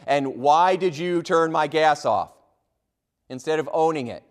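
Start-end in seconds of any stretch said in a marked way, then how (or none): 0.4-2.3 mock angry caller. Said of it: "they're angry and they're in a panic".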